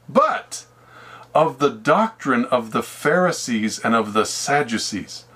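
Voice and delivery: slow, deliberate reading of the verse; slow scripture reading. Shown as a demonstration. Preacher reads verse twelve aloud, slow and deliberate. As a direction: read it out slowly word by word. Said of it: "It says in verse twelve".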